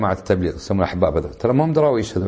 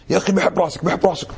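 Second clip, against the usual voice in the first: mock forced kiss greeting; 5 semitones higher than usual. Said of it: "ونزل رقبتي كذي".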